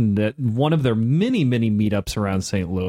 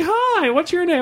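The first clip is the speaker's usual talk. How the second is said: much higher, sing-song imitation of an overly sweet stranger; mock chirpy stranger. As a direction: ham up a saccharine stranger asking your name, pitched way up. The speaker imitates the strangers greeting him.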